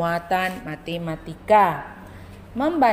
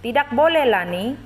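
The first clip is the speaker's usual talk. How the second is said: a hint of a child refusing, higher and firm; voicing Komang lightly; 5 semitones higher, 4 dB louder than usual. Teacher reads Komang's refusal to pupils, lightly voiced and firm. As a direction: say no like a schoolkid, pitched up. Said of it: "ada percakapan antara Lani dan Komang".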